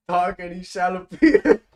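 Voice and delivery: ordinary talk, nothing marked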